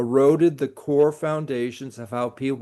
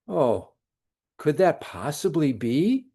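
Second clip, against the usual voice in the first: sarcastic. Shown as a demonstration. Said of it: "Did you note the sarcasm in my voice?".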